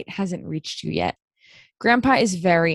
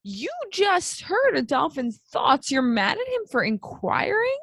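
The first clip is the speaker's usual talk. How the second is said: incredulous retort; 5 semitones higher than usual. Retold or imitated. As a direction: drag it out as if she can't believe it. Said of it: "And I'm like".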